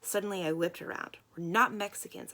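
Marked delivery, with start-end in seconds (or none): 1.3-2.3 loud shout at the waitress. A narrator's reading. Girl shouting back at the waitress. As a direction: whip around and shout it at her. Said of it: "I shouted at her".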